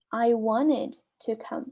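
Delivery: slow, careful model sentence; slow repeat. Shown as a demonstration. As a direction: say it slowly for learners to repeat. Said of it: "Aí olha que a pessoa responde". (devagar, para repetir)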